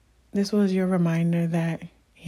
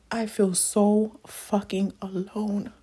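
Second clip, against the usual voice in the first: close to tears; 2 semitones higher, slower than usual. Real, not acted. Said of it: "Okay, I'm not crying".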